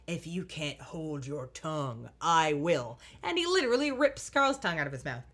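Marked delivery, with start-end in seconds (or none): 0.1-3.0 lower, slow, gravelly demonic threat; a light imitation of a demon growling it out. Recapping the biker villain threatening Carl, mild demonic voice. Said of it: "gravelly and demonic".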